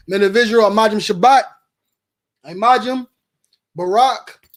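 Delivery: loud, ringing salute call to the class; ceremonial call. Real, not acted. Leader calls the brothers to salute, loud and ringing.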